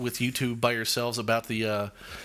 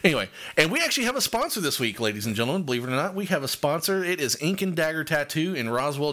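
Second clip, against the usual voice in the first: excited announcement; 3 semitones higher than usual. Acted.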